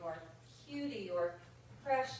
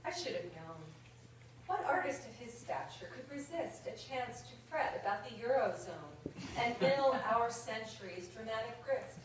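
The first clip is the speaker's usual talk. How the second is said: put-on British accent. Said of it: "apologize to the actual Brits in the audience for the accent".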